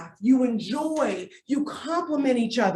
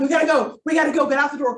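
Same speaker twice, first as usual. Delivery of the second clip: mock yelling; 3 semitones higher, 4 dB louder, faster than usual. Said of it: "I'm yelling at my husband".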